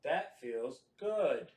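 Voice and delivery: very slow, low monotone; drawn out like a robot; light robot voice. Pretend. Lightly imitated robot doll speaking to her. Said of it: "robot voice".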